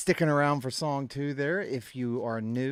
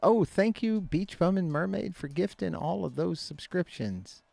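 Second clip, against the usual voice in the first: excited thanks; 6 semitones higher than usual. Real, not acted. Thanks for gifted subs.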